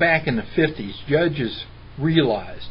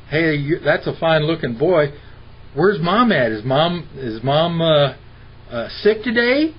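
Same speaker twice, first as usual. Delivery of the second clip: mock prying doctor. Dad imitating the doctor asking if mom is sick, prying. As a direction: fake friendliness hiding suspicion.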